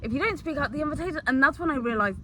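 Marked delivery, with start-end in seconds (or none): 0.0-1.2 mock reply. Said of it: "she'd be like".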